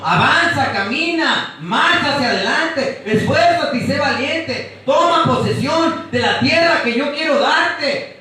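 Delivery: from calm urging building to a shouted command; rally them forward, ending in a shout; God commanding. Retold or imitated. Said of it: "Dios te está diciendo".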